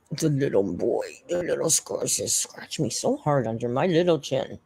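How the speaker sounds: cooing pet-talk voice; baby talk. Acted. Streamer cooing to her cat about his scratches.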